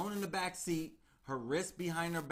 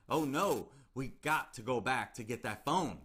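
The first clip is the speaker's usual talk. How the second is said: a touch of louder panic, hammed-up lightly; mock panicky; 3 semitones lower, 4 dB louder than usual. Kidnapper panics about the phone, mock panicky. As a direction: imitate a rattled man's sudden fear. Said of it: "get a little panicky".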